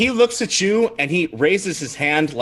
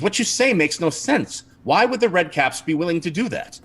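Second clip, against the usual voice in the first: exasperated captain; 6 semitones higher than usual. Acted. Captain rejects the accusation, exasperated.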